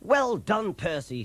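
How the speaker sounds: high cheer, dropping on the name; excited shout. A narrator's reading. Driver praises Percy, high excited shout. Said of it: "he shouted".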